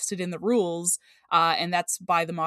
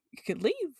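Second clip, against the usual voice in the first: laughing; 5 semitones higher, 5 dB quieter than usual. Real, not acted. Playful dismissal with laugh.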